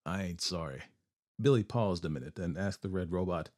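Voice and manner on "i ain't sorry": grunted. A narrator's reading. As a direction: grunt it under your breath. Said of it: "Billy grunted".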